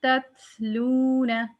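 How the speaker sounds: तत्लूना slowly, with the second त released as breath; तत्लूना with audible whisper. Shown as a demonstration. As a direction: drawl तत्लूना and let air out on त. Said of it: "लेकिन हम पढ़ेंगे".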